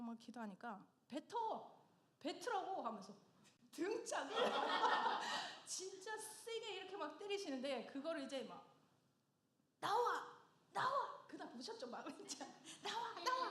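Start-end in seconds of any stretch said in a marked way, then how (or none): 1.1-2.8 high-pitched mock order to spit it out; retold urgent command. Pastor urging her to pray aloud. 9.8-11.2 loud, high imitation of a pastor's command; retold commanding shout. Pastor striking while praying over her. 12.8-13.5 high-pitched mock command; retold commanding cry. Pastor striking while praying over her.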